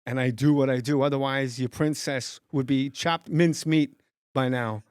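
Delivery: movie speech in a songlike, halting cadence; Christopher Walken. Acted. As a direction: let each phrase fall as the impersonated actor. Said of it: "it's like a song".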